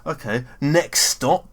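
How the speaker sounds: slow, lightly voiced stop call; a hint of a cheery bus driver; jolly driver voice. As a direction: relish the announcement like the driver. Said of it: "I got to hear him say".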